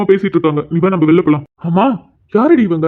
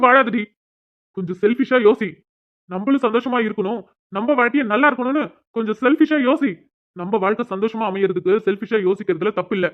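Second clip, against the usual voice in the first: much softer, coaxing his wife; gentle urging; 5 dB quieter than usual. Acted. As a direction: talk her round softly. Husband gently urges wife.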